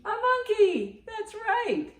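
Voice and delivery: high delighted praise; excited praise. Real, not acted. Grandma cheering a correct answer for Grandma Lou.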